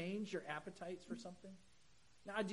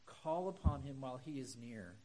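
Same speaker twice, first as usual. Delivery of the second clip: put-on gentle pleading with kids; 2 semitones lower than usual. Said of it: "what we need to say is".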